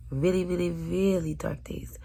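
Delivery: hushed and dragged out. Real, not acted. Whispered emphasis.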